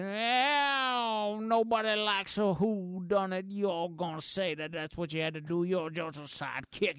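hint of a cranky old prospector scolding. Old prospector sneering at the sidekick, lightly voiced. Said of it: "that's when the prospector comes in".

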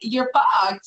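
sassy, punchy drag queen snap; campy drag queen. Acted. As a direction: throw it out like a diva. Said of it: "I'm talking like a drag queen".

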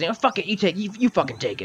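high-pitched voice of a squabbler giving up; exasperated brawler. Acted. Game master voices man handing over the thermos, exasperated.

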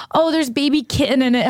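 imitated teasing, breaking into laughter; Mystery Man. Friend teasing an accidental meat-eater, mock laughing fit. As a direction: crack up on a mocking little joke. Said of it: "dying laughing".

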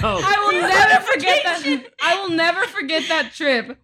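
talking through real laughter; laughing recollection. Real, not acted. Recalling the hotel trip with family, laughing. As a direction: let giggles break into the words. Hilarious shared memory of a trip.

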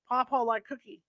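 put-on gummy old-man mumble, lips over gums; toothless. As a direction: speak as if you have no teeth. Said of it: "talks like he's toothless".

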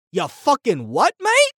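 "mate" jumps way up; disbelieving "ya fucking what, mate?"; outraged incredulity; incredulous. Real, not acted. Repeats his catchphrase of outrage.

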